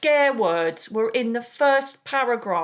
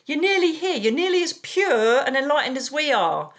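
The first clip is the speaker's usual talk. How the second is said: voicing the aliens; 4 semitones higher than usual. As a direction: play the galactic friends greeting you. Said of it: "They're saying".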